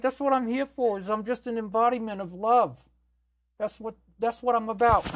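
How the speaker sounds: high, raspy granny voice, sweet and cooing; raspy Tran Ma. Acted. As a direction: play a doting, raspy old grandma begging viewers to stay. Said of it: "I gotta be raspy".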